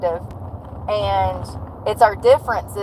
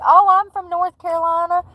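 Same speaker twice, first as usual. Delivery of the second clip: imitating clerk; 8 semitones higher than usual. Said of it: "She's like".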